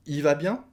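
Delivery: "Il" said as just "i"; "i va bien?" with no L, rising; dropped L. Shown as a demonstration. Teacher repeating the question, L swallowed. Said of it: "on mange le L".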